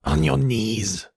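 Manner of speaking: slow, menacing order; cold command. Acted. Emperor forcing the apprentice down, cold command. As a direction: make it an icy order.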